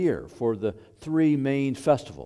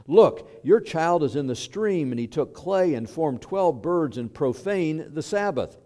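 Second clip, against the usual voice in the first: loud, raised-pitch tattling report; urgent accusation; 5 semitones higher, 5 dB louder than usual. Acted. Bystander reporting Jesus to his father Joseph, urgent accusation.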